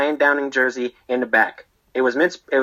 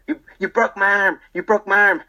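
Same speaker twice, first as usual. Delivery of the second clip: high-pitched imitation of an injured man's yell; mock yelling; 8 semitones higher than usual. Barber imitating customer with broken arm, mock yelling. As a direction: imitate his pained yelling, pitched high without much volume. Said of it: "He was yelling".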